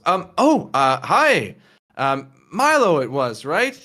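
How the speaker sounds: flustered Tina. Acted. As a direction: stammer it out like a shy student caught off guard. Tina greets Milo, flustered.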